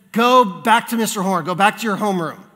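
mild imitation of a cross teacher; lightly voiced stern teacher. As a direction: send the pupil out firmly. Teacher ordering pupil out, retold.

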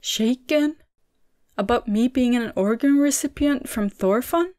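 high, surprised question. A narrator's reading. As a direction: echo it back in disbelief. Surprised young man echoing.

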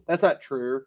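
mock foreign accent with an added R on "true"; mimicking his accent. Host teasing friend over his pronunciation, mimicking accent. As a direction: parody his accent, an R tacked onto "true". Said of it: "There's no R in the".

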